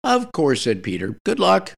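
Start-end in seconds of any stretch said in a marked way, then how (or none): 0.0-0.6 high, lightly cheery reply. A narrator's reading. Peter accepts the wedding invitation, cheery. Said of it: "He spoke cheerily". 1.2-1.7 high-pitched cheerful send-off; cheery. A narrator's reading. Peter sends his friend off to propose, cheery. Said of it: "He spoke cheerily".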